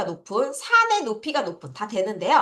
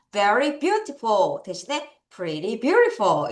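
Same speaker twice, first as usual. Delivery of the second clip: slow demo; much slower than usual. Shown as a demonstration. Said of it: "이렇게 할 수도 있고요".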